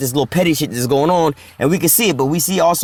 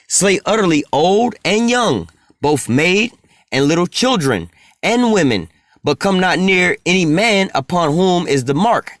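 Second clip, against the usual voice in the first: slow scripture reading. Acted.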